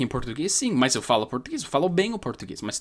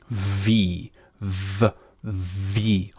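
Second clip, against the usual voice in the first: buzzing v sound; voiced v; 5 semitones lower, much slower than usual. Shown as a demonstration. Teacher demonstrating the v. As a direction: hum the v against the lip. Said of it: "a gente fala v".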